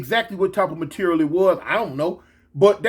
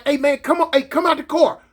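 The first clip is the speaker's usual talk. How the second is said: urgent higher-pitched coaxing orders; retold hollering; 5 semitones higher than usual. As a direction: call someone out in stammered repeats.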